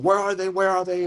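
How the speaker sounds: lightly voiced bandit questioning villagers; bandits demanding. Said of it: "large individuals, are asking".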